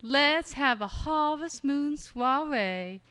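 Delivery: slow, drawn-out faux Southern possum; faux Southern accent. Shown as a demonstration. Possum inviting friends, faux Southern accent. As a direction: camp Southern possum drawl. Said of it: "And the possum".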